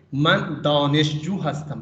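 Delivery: دانشجو pushed out a little, slow and clear; stress on دانشجو. Shown as a demonstration. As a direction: lean on the word دانشجو in من دانشجو ہستم. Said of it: "دانشجو پہ ہم stress کریں گے". (دانشجو پر زور دیں)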